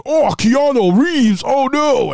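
high, slow mock wail of dread; hammed-up high panicked cry. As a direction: whimper it like a terrified demon.

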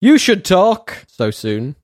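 slow, puzzled read of the comment; reading out slowly. Retold or imitated. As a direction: drag out the odd phrase. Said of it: "This just says".

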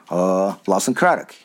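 a hint of Mike unsure; slightly wrong copied voice. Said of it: "I'm gonna do Mike".

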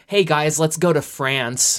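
slow, drawn-out mock accent as heard by outsiders; imitated English-speaker accent. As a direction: exaggerate the accent, stretching it out slowly. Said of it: "that's how it sounds to me".

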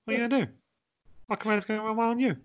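hammed-up Cockney wrestler promo; Cockney Hulk Hogan. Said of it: "Cockney Hulk Hogan would be the best one".

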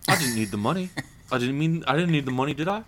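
lightly voiced mock-Cockney; a touch of English film star; Michael Caine. Playing the actor defending his role, light mock-Cockney. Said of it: "I'll just do that for every episode".

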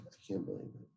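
breathless, hushed disbelief; barely a whisper, overwhelmed; soft awed whisper of disbelief; stunned whisper. Retold or imitated. Stunned hearing the saved man lived.

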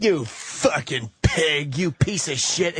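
slow, drawn-out imitation of a nasty fight; mock angry insult. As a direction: spit it out slowly like an ugly breakup row. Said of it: "It just gets so ugly".

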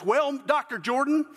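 haughty Southern reporter, pitched high. Acted. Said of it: "said in a haughty voice".

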